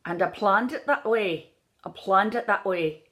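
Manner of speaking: "planned" opened toward "plahnd"; lilting "planned" with an "ah" vowel; Irish short A. Shown as a demonstration. Coach drilling the vowel, "planned" as "plahnd".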